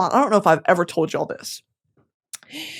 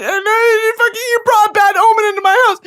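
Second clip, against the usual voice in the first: much higher, louder, fast panicked cry; retold panic; 12 semitones higher, 4 dB louder than usual. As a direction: blurt it out in mock panic. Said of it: "'Cause I'm like".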